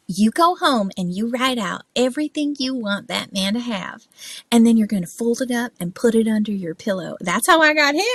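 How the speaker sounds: lightly imitated Southern woman's advice; sweet Southern accent, lifting at the end. Actor's wife advising on getting a man, Southern accent. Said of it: "a Southern accent".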